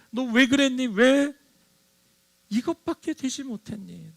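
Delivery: 높고 크게 몰아붙이는 가상의 호통; 실망한 스승처럼 다그치듯; 꾸짖는 목소리. Pretend. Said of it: "라고 말하지 않습니다". (높고 크게 꾸짖는 호통)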